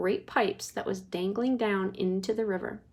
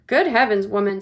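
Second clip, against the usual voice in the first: louder indignant outburst; husband indignant at his wife; 7 dB louder than usual. Acted. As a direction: scoff at the idea. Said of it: "said Mister Gloop".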